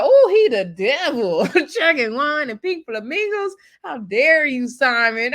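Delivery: loud, high mock outrage at the devil. Recapper mocking her own reaction to Simon, hammed-up outrage. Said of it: "I was like".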